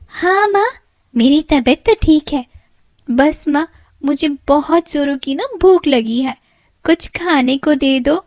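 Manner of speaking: put-on high pampered girl voice; spoiled daughter. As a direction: whine for food like a pampered child. Spoiled daughter Babita asks food.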